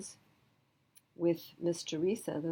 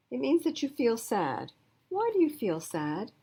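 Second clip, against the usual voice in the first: father voice; 7 semitones higher, 5 dB louder than usual. Acted. Daddy explains the blues.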